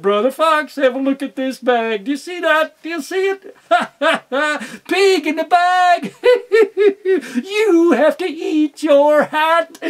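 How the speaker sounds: high, loud laughing taunt; gleeful gloat. Acted. Fox gloating to Brother Fox, high and laughing. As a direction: crow and laugh at your brother.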